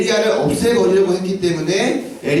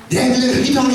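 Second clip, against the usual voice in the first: mock villainess shriek, pitched up; drama villainess shout; 7 semitones higher than usual. Teacher imitating a TV villainess screaming. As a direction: shriek it like a soap-opera villainess. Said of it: "이렇게 소리치는 그런 약간 악녀 같은 스타일".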